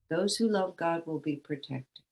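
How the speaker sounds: plain flat read, no emphasis; flat quoted reading; read flatly. Shown as a demonstration. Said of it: "I've read it as flatly as that".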